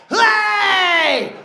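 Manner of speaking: loud, high "Hey!" to scare; jump-out shout. Retold or imitated. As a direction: leap out and yell it. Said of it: "my mum jumped out like".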